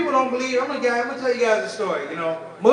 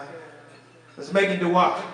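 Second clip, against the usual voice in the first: slow and calm; 3 semitones lower, much slower than usual. Retold or imitated. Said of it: "And I said".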